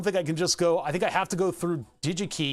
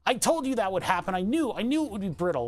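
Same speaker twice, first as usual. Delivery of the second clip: higher-pitched I-told-you-so; mock told-you-so, pitched up; Cluck J; 5 semitones higher than usual. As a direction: lightly mimic a know-it-all critic. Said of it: "Cluck J is there to be like".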